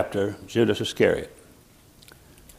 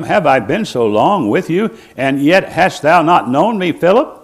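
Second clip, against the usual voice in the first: high, loud reproachful question; Jesus rebuking; 5 semitones higher, 6 dB louder than usual. Retold or imitated. Jesus rebuking Philip for not knowing him, high and loud. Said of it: "Jesus said unto him".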